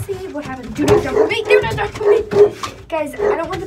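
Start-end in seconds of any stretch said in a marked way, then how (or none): 0.7-1.4 louder command to a dog; firm warning. Real, not acted. Warning the pit bull. 1.4-2.5 higher, louder repeat of the warning; firmer warning. Real, not acted. Warning the pit bull.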